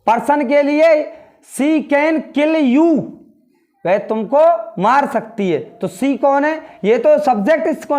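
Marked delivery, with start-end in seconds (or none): 1.5-2.9 each word drawn out slowly; spelled-out, unhurried classroom reading; slow model reading. Shown as a demonstration. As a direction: read it slowly for the class to copy. Teacher models English sentence.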